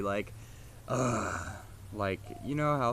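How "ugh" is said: angry grunt. Shown as a demonstration. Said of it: "like a really angry".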